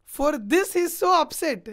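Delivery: loud disbelief at the fuss; exasperated outburst. Retold or imitated. Outraged retelling of Rama's view.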